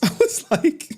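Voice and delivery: high, loud, incredulous yelp; shocked disbelief. Retold or imitated. Telling the insider he's on their list, shocked and high. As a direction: squeal it out like you can't believe it.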